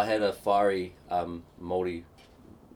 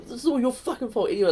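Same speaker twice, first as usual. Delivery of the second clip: mock angry ex; 11 semitones higher, faster than usual. Ex-missus quarrel voiced.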